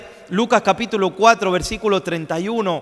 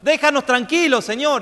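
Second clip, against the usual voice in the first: higher-pitched mock plea, no real shout; retold shouting; 5 semitones higher than usual. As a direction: imitate demons crying out, only mildly. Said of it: "le gritaban los demonios". (grito suplicante, apenas imitado)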